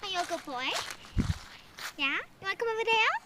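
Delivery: soft cooing dog talk. Real, not acted. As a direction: coo at the puppy gently.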